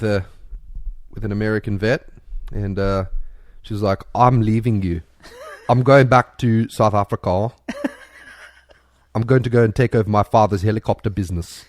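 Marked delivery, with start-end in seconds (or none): 4.2-11.6 male voice impression. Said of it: "a very good male impression".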